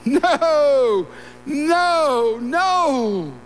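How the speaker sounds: God flatly refusing Cain's offering. Acted. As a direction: turn it away the way God would, firm.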